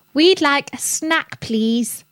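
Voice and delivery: put-on high slow small-child voice; little girl asking. A narrator's reading. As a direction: ask politely like a tiny girl. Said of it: "said Rosie".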